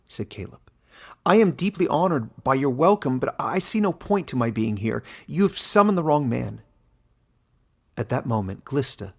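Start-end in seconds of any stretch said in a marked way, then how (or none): 1.3-6.6 polite refusal. A narrator's reading. Caleb refusing the council.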